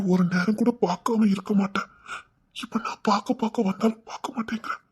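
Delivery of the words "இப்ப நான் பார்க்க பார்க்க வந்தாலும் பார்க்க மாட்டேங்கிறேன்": whisper. Acted. Pleading stalker whispers.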